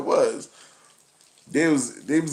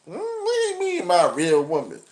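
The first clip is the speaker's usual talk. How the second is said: much higher, confused woman caricature; high, confused woman impression; high puzzled woman voice; 5 semitones higher than usual. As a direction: ask it high and baffled.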